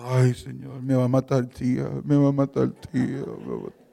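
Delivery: tearful lament, played up; mock crying. Husband dreading his wife's reaction while praying, mock crying. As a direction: imitate wailing that sinks low at the end. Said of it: "Y ahí llorando, digo".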